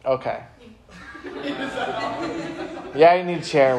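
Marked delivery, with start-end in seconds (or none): 1.2-3.8 laughing. Real, not acted. Laughing at a listener's answer.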